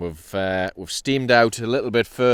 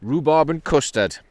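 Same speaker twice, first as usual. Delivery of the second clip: raised, showy Geordie pronunciation; Geordie accent; 5 semitones higher, 4 dB louder than usual. Shown as a demonstration. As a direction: show off the Geordie sound of it. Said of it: "sounds quite funny when you're a Geordie".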